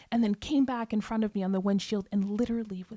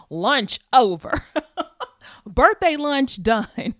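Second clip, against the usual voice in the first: laughing; 7 semitones higher, 9 dB louder, slower than usual. Retold or imitated. Bitter joke after hearing of death.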